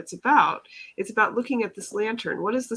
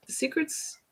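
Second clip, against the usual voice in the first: whispered; 8 semitones higher, 8 dB quieter than usual. Shown as a demonstration. Repeats word, whispered second take.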